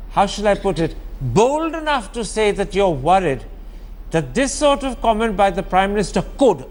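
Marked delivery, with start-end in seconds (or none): 4.1-6.6 could leaned on, weighed carefully; stress on could. Real, not acted. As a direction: lean on could, not will or may. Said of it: "and I emphasize the word could".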